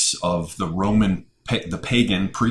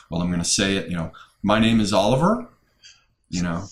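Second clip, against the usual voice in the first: mock tentative uptalk. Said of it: "said in such a tentative way".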